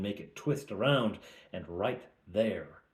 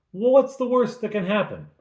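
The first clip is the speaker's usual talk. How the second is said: Fleetwood asking; 11 semitones higher, 7 dB louder than usual. Retold or imitated. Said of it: "Fleetwood asks".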